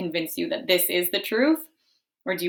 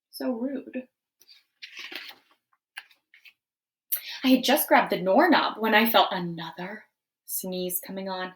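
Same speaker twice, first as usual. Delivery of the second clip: wolf narrator; 5 semitones higher, 5 dB louder than usual. Acted. Wolf narrates his story.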